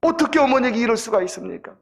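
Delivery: put-on children's protest, rising in pitch and force; mildly acted indignant complaint; complaining. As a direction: build a retold grievance toward the last question. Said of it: "불평하기 시작하는 거예요".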